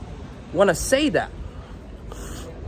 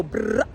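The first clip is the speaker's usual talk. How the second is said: imitated gunfire; 7 semitones lower, 3 dB quieter than usual. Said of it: "like that".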